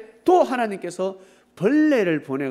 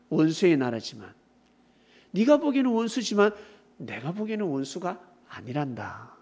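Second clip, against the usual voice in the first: God admonishing Jonah; 4 dB louder than usual. Acted. God teaching Jonah that Nineveh's people are precious, solemn. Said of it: "그때 하나님께서 요나에게".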